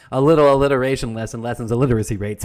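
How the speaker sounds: quick alliterative patter; rattled-off tongue twister. Shown as a demonstration. Teacher showing off alliteration to the class, fast patter.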